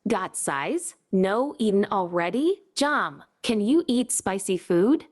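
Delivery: clipped Manglish, short choppy words; Malaysian English accent. Pretend. Comedian shows off the Manglish accent he taught, Malaysian English accent. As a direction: chop every sentence down Malaysian style. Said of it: "a very sexy Malaysian English accent".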